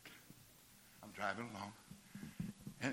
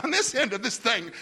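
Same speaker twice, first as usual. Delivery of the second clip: laughing excitement; 3 semitones higher, 4 dB louder than usual. Retold or imitated. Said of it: "he started telling me".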